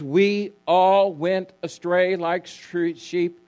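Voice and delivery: "all" stretched and set apart; stress on all. Shown as a demonstration. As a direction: lean slowly on the word "all". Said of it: "notice the emphasis on all".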